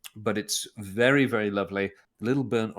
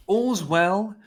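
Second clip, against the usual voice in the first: slow, higher, louder grand recital; mock olde english; 7 semitones higher, 5 dB louder, slower than usual. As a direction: declaim it like a hammy Shakespearean. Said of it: "That's not Shakespeare".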